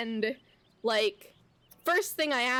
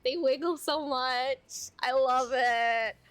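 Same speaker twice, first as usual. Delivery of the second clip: cooing to pet. Real, not acted.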